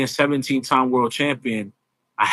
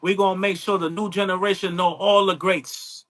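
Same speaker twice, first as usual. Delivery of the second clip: higher, drawling Southern preacher voice calling everyone honey; Dusty Rhodes impression; 5 semitones higher than usual. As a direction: imitate the old wrestler sweet-talking his fans. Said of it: "That's a good impression".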